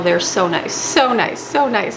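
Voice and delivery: each "so" leaned on, repeated three times; gushing over how nice "so nice" they are; emphatic repetition. Real, not acted. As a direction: stress "so nice" harder each time. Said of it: "repeats for emphasis".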